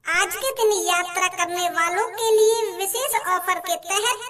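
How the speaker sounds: formal train announcement voice; over the intercom. Acted. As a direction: read it like a station announcer.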